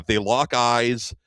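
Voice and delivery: mildly dramatic slow repeat; slow emphatic repeat. Acted. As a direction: lean into it the second time. Repeats the beat for effect.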